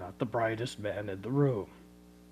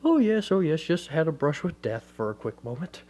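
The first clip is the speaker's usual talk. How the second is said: flustered cheer; 5 semitones higher, 6 dB louder than usual. Retold or imitated. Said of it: "He says".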